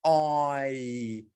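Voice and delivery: I modelled clearly for copying; teacher modelling the sound I; vowel I demo. Shown as a demonstration. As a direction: say I for the class.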